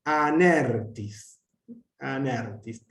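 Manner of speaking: anertis said as one word, stress on ner, tis unaccented; enclitic demonstration. Shown as a demonstration. Teacher models tis as enclitic, anertis in one unit. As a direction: slowly lean tis onto aner in anertis. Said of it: "tis es enclítico".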